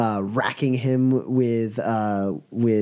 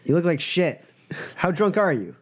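higher-pitched, incredulous jab; mock disapproval; 6 semitones higher than usual. Boss looks at his drunk friend, mock appalled. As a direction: needle him in an acted higher voice. Boss scolds drinking player character.

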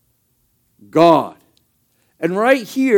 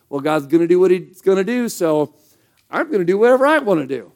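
mock careless believer; faster than usual. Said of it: "They're like".

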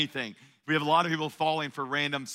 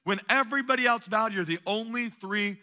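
higher, disbelieving questioning; incredulous king; 3 semitones higher than usual. Retold or imitated. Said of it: "Nebuchadnezzar was taking it personal".

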